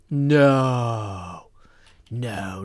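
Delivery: playful fake New Zealand accent; lightly done New Zealand accent; mock New Zealand accent. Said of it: "my best New Zealand accent".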